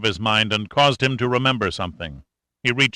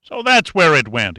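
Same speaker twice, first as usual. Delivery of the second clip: louder, higher indignant outburst; angry; 5 semitones higher, 4 dB louder than usual. Acted. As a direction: let the anger jump out. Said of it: "he said angrily".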